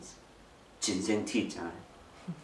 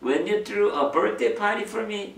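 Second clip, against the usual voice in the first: put-on higher, very slow, drawn-out girl's question; grown daughter asking; 10 semitones higher, 6 dB louder, much slower than usual. Grown daughter asking her mom, higher and slow. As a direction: coax the memory out slowly. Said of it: "뭘 기억하냐면".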